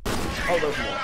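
sudden frightened shout; startled yelp. Real, not acted. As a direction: jump at the surprise. Startled by enemies.

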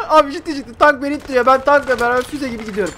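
high, loud, laughing report; laughing disbelief. Real, not acted. Laughs at tank pushing him. (gülerek, yüksek sesle)

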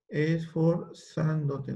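Esforzándote said very slowly, syllable by syllable; slow careful Esforzándote; slow dictation. Shown as a demonstration. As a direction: drag out Esforzándote for spelling.

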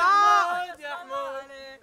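slow, drawn-out loud call; long loud summoning call. Real, not acted. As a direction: stretch the name out to reach him. Calling out to Hmoud.

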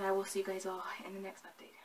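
breathy whispered goodbye; whispered sign-off. Real, not acted. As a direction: whisper the farewell softly to the viewers. Closing line repeated whispered.

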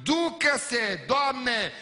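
loud, high mock grievance to God; hammed-up indignant complaint; complaining believer. Believer griping to God about a cheat, loud mock indignation. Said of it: "Și mai spunem și alte vorbe".

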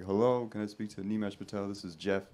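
put-on lightly softened telemarketer's Indian accent; heavy Indian accent. Indian telemarketer phoning a customer as "Jeff", heavy Indian accent. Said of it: "Deep Indian accent, like, heavy".

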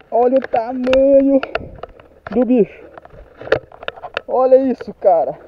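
high shrieking outburst of joy, stretched out slow; ecstatic. Real, not acted. Angler finally lands a giant fish, ecstatic high yells. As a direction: let it burst out, screaming with delight.

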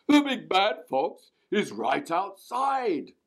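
slow, eerie menacing voice; slow spooky warning voice; scary voice. A narrator's reading. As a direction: spook the hen slowly. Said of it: "a scary voice cried".

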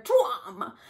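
loud storybook lion roar. A narrator's reading. Lion pouncing upon rabbit, roaring. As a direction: pounce with a booming voice. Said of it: "he roared".

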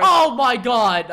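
hammy fake frustration; badly faked dismay. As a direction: overact being stuck. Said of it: "You're so bad at acting".

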